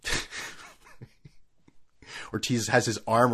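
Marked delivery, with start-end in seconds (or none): 0.0-0.2 slow, higher, mannequin-like laugh; slow hollow forced laugh; stiff fake laugh. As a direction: laugh like a wooden dummy. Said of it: "just like".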